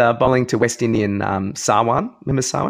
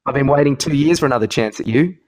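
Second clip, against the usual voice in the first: playing Warne; 2 semitones higher than usual. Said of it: "I'll be Warren".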